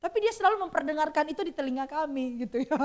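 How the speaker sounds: ordinary talk, nothing marked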